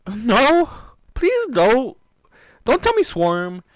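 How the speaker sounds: high, loud shocked protest; shocked gamer screaming no; shocked cry. Real, not acted. Reacting to the changeling reveal with a shocked cry.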